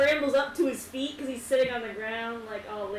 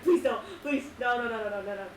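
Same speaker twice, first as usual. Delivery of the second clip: pleading, louder, in mock panic; mock begging; 5 dB louder, faster than usual. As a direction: beg like a kid fighting sleep. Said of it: "his eyes, like".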